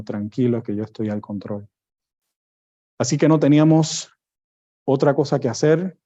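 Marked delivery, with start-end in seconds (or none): 0.0-1.7 soft, hushed reassurance; gentle whisper. Retold or imitated. The Lord calming a worried father, softly whispered. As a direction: murmur it close to the ear, calming. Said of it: "susurrándole al oído".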